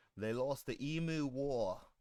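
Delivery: terrible, bad put-on Australian accent. Chatting while fixing failed driver updates, terrible Australian accent. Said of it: "That's a terrible Australian accent".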